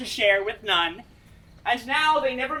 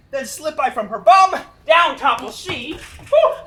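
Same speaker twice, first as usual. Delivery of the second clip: laughing; 6 dB louder than usual. Acted. Puck laughing through comic tale.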